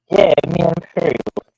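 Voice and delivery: muffled underwater audio. Real, not acted. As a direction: voice as if under water. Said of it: "sound like you're underwater".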